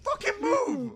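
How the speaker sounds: frantic high shouts; being chased. Real, not acted. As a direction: yell to clear the way, panicking.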